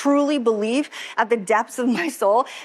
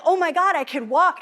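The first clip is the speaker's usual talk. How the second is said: high, amazed gasp of joy; excited disbelief; 7 semitones higher than usual. Retold or imitated. Woman realizing she can walk again, high and amazed. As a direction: say it as if you can't believe it. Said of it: "And I was just like".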